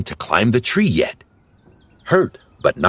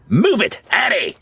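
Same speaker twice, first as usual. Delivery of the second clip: high-pitched hurrying command; urgent order; 13 semitones higher than usual. A narrator's reading. Gutsy hurries a Smurf from the cat, urgent. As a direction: urge them on, pitched way up. Gutsy urges them up the tree.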